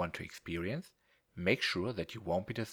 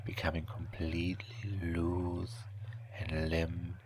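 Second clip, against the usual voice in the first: whispered hypnosis; slower than usual. Acted.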